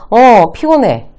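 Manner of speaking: acted-out tired reply; weary answer. Shown as a demonstration. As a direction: agree tiredly, stretching the words. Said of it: "라고 대답할 확률이 높죠".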